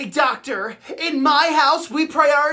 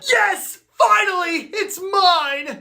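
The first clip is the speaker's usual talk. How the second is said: excited, higher-pitched cheer; gleeful triumph; 4 semitones higher, slower than usual. Acted. Collector gets his gator head at last, gleeful. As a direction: crow over a prize finally won.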